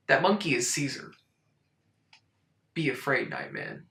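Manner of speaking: hushed horror-movie threat; whispered warning to the Nightman; ominous warning. Pretend.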